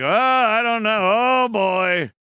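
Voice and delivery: imitating a tough sitcom father; mock gruff father. Mocking the rugged sitcom dad with a lightly voiced growl. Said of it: "the rugged father who, like, is like".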